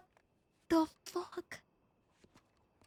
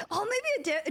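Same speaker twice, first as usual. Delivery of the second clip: normal talking voice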